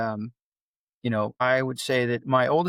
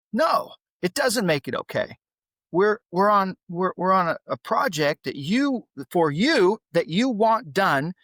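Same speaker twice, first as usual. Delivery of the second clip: heated; 5 semitones higher, 3 dB louder than usual. Real, not acted. Heated rant about son.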